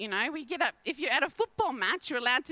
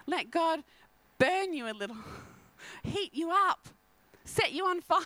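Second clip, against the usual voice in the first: rising fervor; 4 semitones higher than usual. Real, not acted. Preacher builds fervently on God refining.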